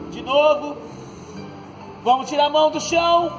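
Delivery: ordinary talk, nothing marked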